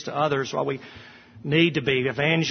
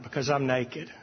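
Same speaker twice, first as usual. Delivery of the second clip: softer, small admission; ashamed admission; 2 semitones lower, 6 dB quieter than usual. Acted. Preacher confessing to God, soft ashamed reply.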